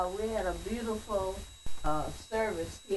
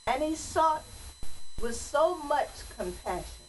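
poem recitation; 2 semitones higher than usual. Acted. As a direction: recite it like a church poem, each phrase set apart. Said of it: "But I'm gonna read it as a poem".

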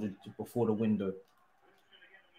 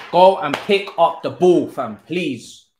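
higher and louder, begging the player; frustrated yell; 6 semitones higher, 11 dB louder, slower than usual. Real, not acted. Gamer yelling at his player to win the ball. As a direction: shout it at the screen, fed up.

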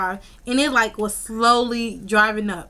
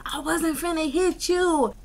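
mock tearful plea, pitched up; crying voice; 6 semitones higher than usual. Telling the ex she never meant harm, mock crying voice. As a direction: imitate a wailing protest of innocence. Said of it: "That's my crying voice".

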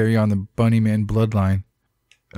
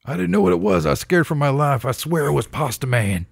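panicked cop; 4 semitones higher than usual. Acted. Acting a panicked cop's excuse.

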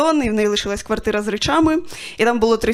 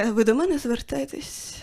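soft, slow deadpan reply; 7 dB quieter than usual. Retold or imitated. Owner answering a dog lover in soft deadpan. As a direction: ask it dry and soft. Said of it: "Я така".

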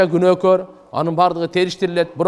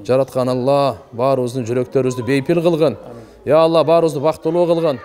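prayer. Acted. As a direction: intone a supplication over the congregation. Leads a closing prayer (dua). (жапырт дуа окуган үн)

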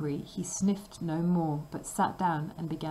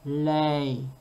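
shouted command; 3 semitones lower, 3 dB louder than usual. Acted. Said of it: "and shouted".

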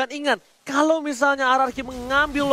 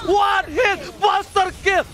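higher, hyped kill callout; fighting game announcer; 4 semitones higher, much slower than usual. Acted. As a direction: call it like the game's announcer.

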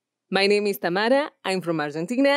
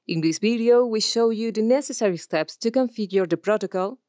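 e-learning narration; 3 semitones higher than usual. Shown as a demonstration. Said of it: "E-learning two".

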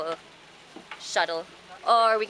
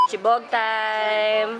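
drawn-out announcement; 6 dB louder, much slower than usual. Acted. Announcing mealtime to camera.

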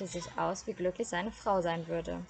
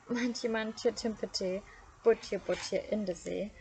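choked voice. Acted. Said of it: "mit fast erstickter Stimme rief".

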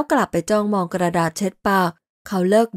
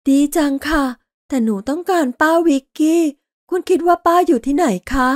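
put-on high child's voice, hopeful then anxious; a small girl missing her aunt; little girl; 6 semitones higher than usual. A narrator's reading. Dinah asks Laurel about her aunt in a high child voice.

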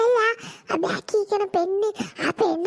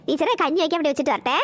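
lower, fast chatty mother in a rush; a busy mom rattling off excuses; hurried mother; 6 semitones lower, faster than usual. Acted. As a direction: lower quick housewife voice.

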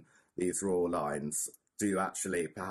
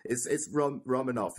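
Russian accent; 4 semitones higher, 3 dB louder than usual. Shown as a demonstration. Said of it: "like Romanov in a Russian accent slightly".

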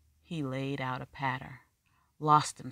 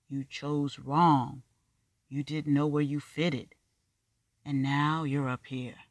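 put-on stern older man; 5 dB louder than usual. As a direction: spell out each word like a verdict. Black man lecturing Steep.

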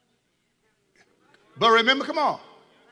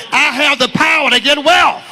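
shouted confession of power; preacher getting the crowd on its feet, shouting; loud declaration; 2 semitones higher, 6 dB louder than usual. Shown as a demonstration. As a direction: open your mouth and declare it. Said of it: "on your feet, opening your mouth".

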